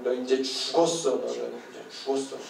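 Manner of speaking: low, soft mock threat; cocky kid threat. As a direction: imitate a child sure of winning the fight. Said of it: "근데 말투가 뭐예요?". (낮게 으름장 놓는 아이 흉내)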